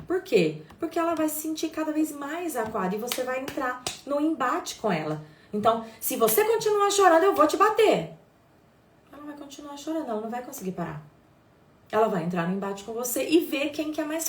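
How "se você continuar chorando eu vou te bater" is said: louder, higher mock threat; threatening parent. Mother imitating a parent threatening a crying child. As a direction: snap it like a fed-up parent threatening.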